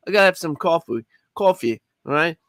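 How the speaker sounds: New York accent, coffee as caw-fee. Shown as a demonstration. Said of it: "how the New Yorkers say it".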